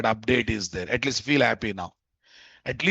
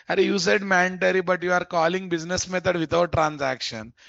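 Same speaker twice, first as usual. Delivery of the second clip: voicing the error; 4 semitones higher than usual. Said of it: "Saying that".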